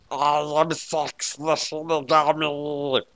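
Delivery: slow solemn otherworldly intro; slow Shinigami voice. A narrator's reading. Shinigami introduces herself to L, slow solemn voice. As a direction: announce yourself slowly, ominous. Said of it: "she said".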